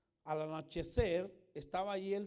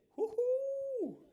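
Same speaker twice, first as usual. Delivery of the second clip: much higher, louder joyful whoop; happy whoop; 7 dB louder than usual. Shown as a demonstration. Rider on a roller coaster drop, joyful high whoop. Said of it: "Y tu grito no es de".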